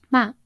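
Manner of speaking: "ma" dropping, Mandarin fourth tone; falling tone. Shown as a demonstration. Podcaster demonstrating to scold in Mandarin, "ma" in falling tone. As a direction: let "ma" fall sharply in pitch. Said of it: "with a falling pitch".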